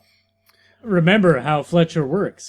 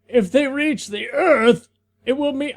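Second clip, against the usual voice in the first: put-on old man voice; 6 semitones higher than usual. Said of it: "in your old man voice".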